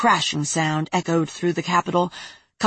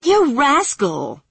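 tearful scolding; 7 semitones higher, 4 dB louder, much slower than usual. Acted. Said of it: "as a tear leaked from her eye".

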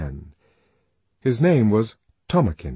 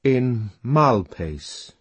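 slow, rueful; 2 semitones higher, much slower than usual. Acted. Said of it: "And he shook his head".

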